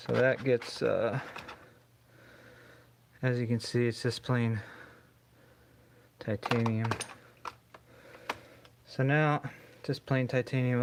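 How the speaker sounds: talking through a welding mask; muffled voice behind a face mask. Real, not acted. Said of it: "can't talk too good with this mask on".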